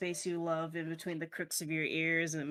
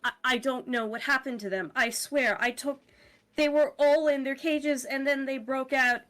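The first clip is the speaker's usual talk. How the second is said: a touch higher, pleading excuses; lightly voiced flustered caretaker; 5 semitones higher, 3 dB louder than usual. Caretaker explaining the escape to pet owners, lightly flustered. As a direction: plead your case, slightly stumbling.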